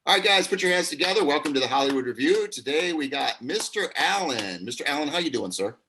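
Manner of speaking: mock talk-show announcer; showman intro. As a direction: hype the crowd like a TV host. Host opens a mock show.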